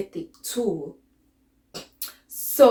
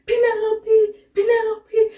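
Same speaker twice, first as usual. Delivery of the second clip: high urgent calls of her name; calling out; 10 semitones higher, 3 dB louder than usual. Retold or imitated. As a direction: call her name, rising in alarm. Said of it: "I remember just calling out".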